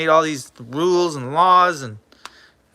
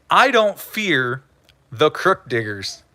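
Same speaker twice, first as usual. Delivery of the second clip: quoted chatter; 3 semitones lower than usual. Retold or imitated. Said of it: "Bouncer Slab says".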